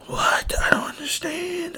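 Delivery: high, squeaky disbelief; incredulous, voice jumping up; baffled disbelief. Acted. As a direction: squeak it out in bewilderment. Acting out his own bafflement.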